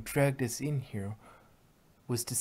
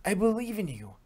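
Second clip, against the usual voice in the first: high, loud pleading cry; begging her friend to fight back, loud and high; desperate plea; 9 semitones higher, 9 dB louder than usual. Acted.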